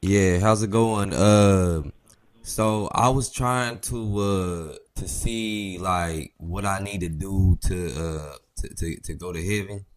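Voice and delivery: put-on slow, drawn-out gangster accent; lazy street gangster accent on the phone. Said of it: "My gangster accent".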